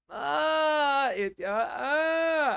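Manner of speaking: high, loud, slow voice breaking into tears.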